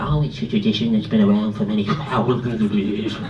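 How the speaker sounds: a hint of a solemn rabbi. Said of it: "Little rabbi impression there".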